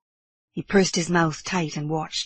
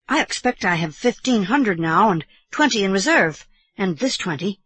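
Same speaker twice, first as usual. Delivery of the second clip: a hint of young boy, higher; lightly voiced earnest boy; 3 semitones higher, 4 dB louder than usual. Boy counting his winnings for uncle, lightly earnest. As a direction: reckon it up earnestly, lightly boyish.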